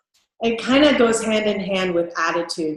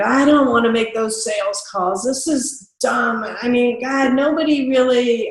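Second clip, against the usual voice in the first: unenthusiastic; 2 semitones higher than usual. Shown as a demonstration. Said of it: "what you don't want is an enthusiasm level".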